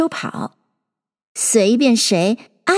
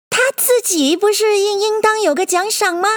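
high-pitched mouse voice, objecting; high little character voice; questioning mouse; 10 semitones higher than usual. Acted. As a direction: query it as a storybook mouse, pitched way up.

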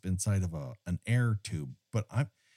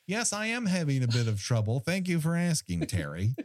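higher-pitched, hammed-up courteous answer; mock polite reply; 6 semitones higher than usual. Imagined diver popping up to answer Terry, mock polite reply. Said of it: "he's gonna pop and going".

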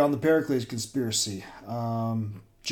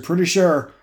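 raised voice; 6 semitones higher, 7 dB louder than usual. Acted. Driver answers during car chase.

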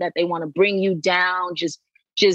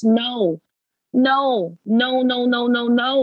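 emphatic no; 5 semitones higher, slower than usual. Real, not acted. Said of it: "urging women not to rush".

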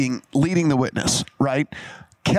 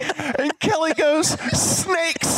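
much higher, words squeezed out through laughter; laughing through words; 13 semitones higher than usual. Real, not acted. Teller laughing hard while retelling the snakes moment. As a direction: keep retelling while you can't stop laughing.

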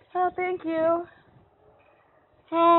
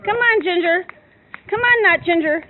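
calling out; 4 dB louder than usual. Real, not acted. Calling cows out of yard.

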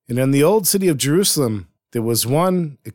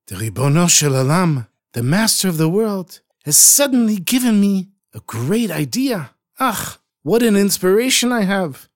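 higher, eager rush of a sudden idea; excited; 6 semitones higher than usual. Acted. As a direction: burst out with the new idea. Sudden inspiration, breathless.

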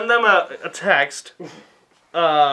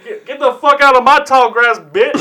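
loud, higher hammed-up tough guy; mock turf threat; 7 semitones higher, 7 dB louder than usual. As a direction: chase a trespasser off, half laughing. Acting out an ambushing Pokemon.

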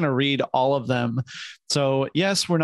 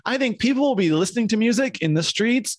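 mock prophecy; 7 semitones higher than usual.

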